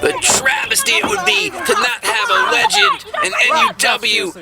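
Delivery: high, impassioned call; excited. Real, not acted. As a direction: rise up with passion. Commentator rising passion.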